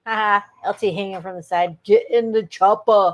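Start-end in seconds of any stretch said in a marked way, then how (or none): 1.8-3.1 drawn-out, hammy call; mock action-movie yell. Friend rehearsing the pickup yell for Jeanette, mock action-hero call. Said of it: "That's what we're gonna yell to Jeanette".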